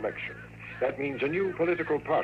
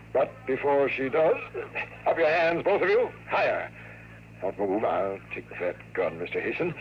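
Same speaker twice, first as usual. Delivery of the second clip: commanding order; 3 semitones higher than usual. Acted. Villain draws gun, orders.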